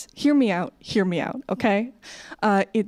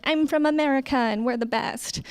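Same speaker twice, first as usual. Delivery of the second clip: higher-pitched mock bragging; naive American boast; 5 semitones higher than usual. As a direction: imitate a cocky teenage tourist. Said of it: "you're like".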